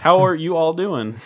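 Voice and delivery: slow, laughing mock Midwestern greeting; Midwestern accent. Host keeps up the accent gag, slow laughing Midwestern. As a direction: stretch it out in a jokey Midwestern voice. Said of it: "a Midwestern track".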